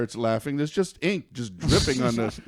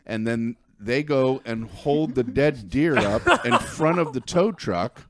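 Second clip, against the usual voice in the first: laughing; slower than usual. Real, not acted. Laughing at absurd gutting scene.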